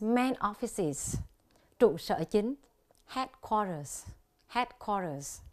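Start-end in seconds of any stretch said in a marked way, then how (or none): 3.1-4.1 Headquarters said slowly, stressed on HEAD; HEAD-quarters, careful weight on the start of Headquarters; first-syllable stress. Shown as a demonstration. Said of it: "Dấu nhấn ở âm tiết thứ nhất". 4.5-5.4 Headquarters stressed on HEAD, falling after it; HEAD-quarters, weight on the start of Headquarters; first-syllable stress. Shown as a demonstration. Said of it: "Dấu nhấn ở âm tiết thứ nhất".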